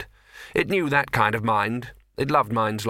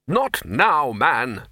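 curt, louder brush-off; busy master snapping at his clerk; 3 semitones higher, 3 dB louder, much slower than usual. Acted. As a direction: cut him off impatiently. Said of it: "snapped the Arch-Chancellor".

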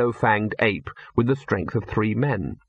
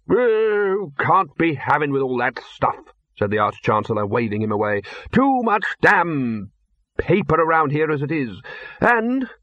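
dismissive Arch-Chancellor; 4 semitones higher than usual. Acted. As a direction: wave the papers away. Arch-Chancellor waves him away.

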